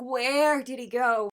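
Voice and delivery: a lighter echo of the searching cry; desperate plea. Retold or imitated. Fan re-quoting the lyric, a milder desperate plea. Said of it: "you can hear that desperation".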